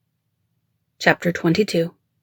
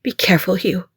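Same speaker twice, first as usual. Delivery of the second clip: hushed, whispered warning; whispered plea. A narrator's reading. Woman to bodyguard in a gunfight, whispered plea. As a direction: whisper it with concern.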